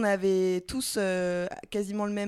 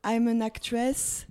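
put-on French-accented English, chatty tourist; English self-introduction; 5 semitones higher, 4 dB louder than usual. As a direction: introduce yourself to backpackers. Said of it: "faire une petite présentation en anglais".

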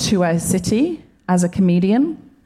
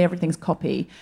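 quiet mother's saying; 5 dB quieter than usual. Retold or imitated. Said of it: "her mother would say".

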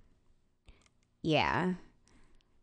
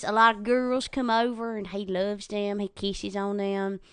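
dog voice; 2 semitones higher than usual. Shown as a demonstration. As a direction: keep voicing Cokie the dog. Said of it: "Cokie kinda talks like this".

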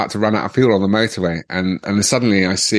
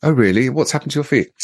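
higher, politely concerned receptionist voice; imitated hospital receptionist; 6 semitones higher, faster than usual. A and E woman greeting a wrecked patient, politely concerned. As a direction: lift the pitch into a customer-service greeting. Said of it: "the woman looked at me and goes".

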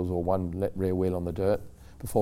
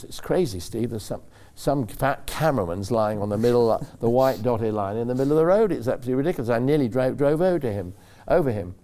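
indignant protest; 3 semitones higher, 3 dB louder than usual. Retold or imitated. Driver protesting to Steve, retold.

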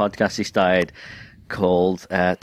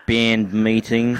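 slow, imitated New Zealand accent; 2 semitones higher, slower than usual. Shown as a demonstration. Trading accent attempts with the co-host, slow New Zealand accent. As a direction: play a New Zealander calling a meeting. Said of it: "Do a, a New Zealand accent".

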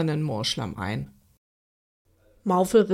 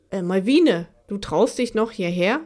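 surprised; 4 dB louder than usual. Acted. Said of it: "fragte er erstaunt".

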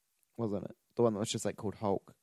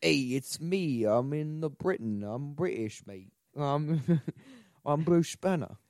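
hammed-up British accent, higher and louder, slow start; 5 semitones higher, 4 dB louder, slower than usual. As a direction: do a posh-ish Brit like Michael Caine. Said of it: "it turned to Michael Caine".

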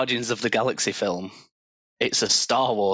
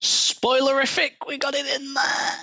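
excited; 13 semitones higher than usual. Real, not acted. Pleased with the joke word.

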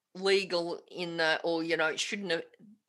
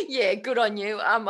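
louder, talking through real laughter; laughing through words; 3 semitones higher, 5 dB louder than usual. Real, not acted. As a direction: still laughing while admitting you lost the thread. Laughing after colleague's joke.

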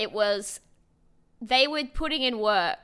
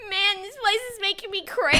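laughing hard; 12 semitones higher, 7 dB louder than usual. Real, not acted. Laughing fit in conversation.

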